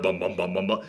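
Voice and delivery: low, soft pulsing bum-bum; imitated suspense music. Mimicking horror music building as the monster closes in, hushed pulse. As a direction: chant a low, quiet movie-score throb. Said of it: "The music is building up".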